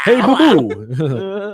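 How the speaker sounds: slow drawn-out cartoon bear; Yogi Bear voice. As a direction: stretch it like Yogi greeting Boo-Boo. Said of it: "That's how Yogi would".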